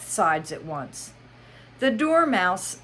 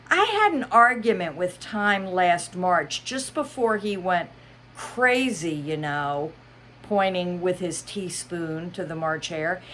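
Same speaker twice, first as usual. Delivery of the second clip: Hatter voice; 3 semitones higher than usual. Acted. Hatter's tale.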